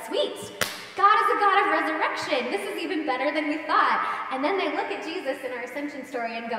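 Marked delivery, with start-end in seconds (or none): 0.1-4.3 a burst of eager, louder joy; excited disciples. Retold or imitated. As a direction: cheer it like a sudden win. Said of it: "the disciples are excited again".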